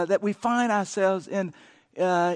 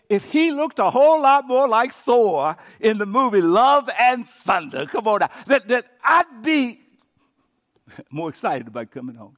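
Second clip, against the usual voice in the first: mock gushing; 4 semitones higher, 9 dB louder than usual. Spouse wishing the partner looked like Thor, hammed-up loud gushing. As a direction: gush loudly, stretching the words.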